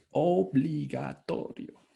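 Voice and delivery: Obligatorio stretched out slowly, every syllable weighed; slow emphatic word. Shown as a demonstration. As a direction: lean on Obligatorio and take your time. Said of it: "esto es lo obligatorio". (Obligatorio, lento y enfático)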